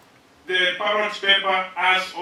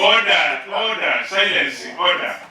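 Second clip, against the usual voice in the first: shouting order order; 4 dB louder than usual. Real, not acted. Speaker silences rowdy chamber.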